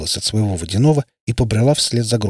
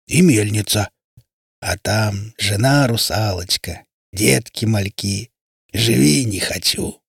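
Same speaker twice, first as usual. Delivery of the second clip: water spirit. Acted. Water spirit's long speech.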